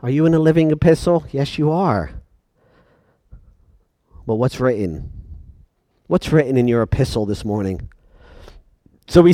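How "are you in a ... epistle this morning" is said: soft, low, probing question; hushed searching question. Acted. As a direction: lean in and ask it quietly.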